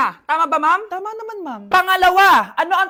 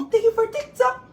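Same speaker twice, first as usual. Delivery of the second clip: 1 sweet livestream voice; 5 semitones higher than usual. Acted. Mother on TikTok live.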